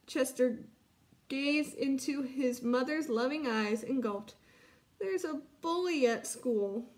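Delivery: put-on lively read-aloud for children; story narration. Teacher reads story aloud.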